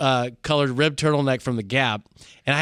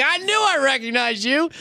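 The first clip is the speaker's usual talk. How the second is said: retold laughing; 12 semitones higher than usual. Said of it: "he burst into laughter".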